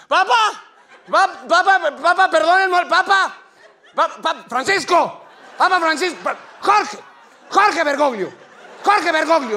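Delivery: grito agudo y fuerte; llama al Papa entre la multitud; grito desesperado. Acted. Gritándole al Papa en la plaza. (fan gritando para que el Papa lo oiga)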